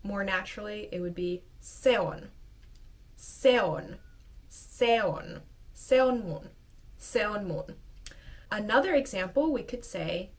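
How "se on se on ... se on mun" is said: a bit faster. Shown as a demonstration. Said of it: "say it a bit faster".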